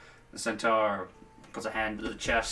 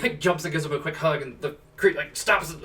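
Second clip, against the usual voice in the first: ordinary talk, nothing marked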